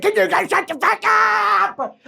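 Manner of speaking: loud, slow, fed-up snap; exasperated outburst. Real, not acted. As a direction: tell them off, drawn out. Snapping at online critics.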